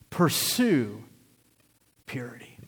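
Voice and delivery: "purity" whispered, voice dropping to a breath. Shown as a demonstration.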